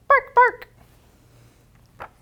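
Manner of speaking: high loud yapping bark; dog bark. Acted. Storyteller voices the puppy barking.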